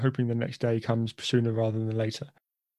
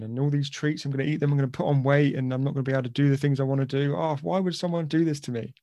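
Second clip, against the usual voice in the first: put-on whinging boy; 2 semitones higher than usual.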